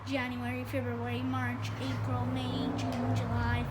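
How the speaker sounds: even, measured list chant; reciting. A narrator's reading. Small boy showing off the months, reciting. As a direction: reel off the months like a memorized list. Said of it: "Fudge recited".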